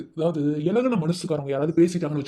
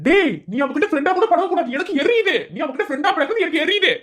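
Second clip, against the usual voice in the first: laughing mock jealousy; 11 semitones higher, 5 dB louder than usual. Bully cries jealousy, laughing.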